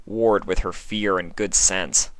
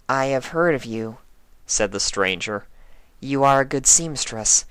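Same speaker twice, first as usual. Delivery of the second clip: eerie changeling voice; 6 semitones higher than usual. Acted. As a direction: coax her like a hungry stranger.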